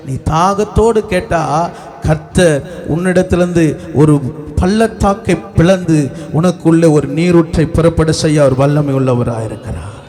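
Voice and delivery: low, emphatic preacher's proclamation; preaching. Real, not acted. Preacher promising God will bring a spring, preaching. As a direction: proclaim it low and firmly, falling at the end.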